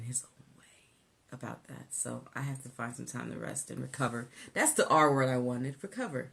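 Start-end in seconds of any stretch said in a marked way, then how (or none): 0.0-3.4 whispering the aside. Real, not acted. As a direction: drop to a whisper. Whispered aside about husband.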